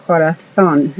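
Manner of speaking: corazón with z as "th", "corathón"; lisped th in the middle of corazón; Castilian Z. Shown as a demonstration. Teacher imitates Spaniards' Z, corazón with a "th". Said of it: "Los españoles dicen".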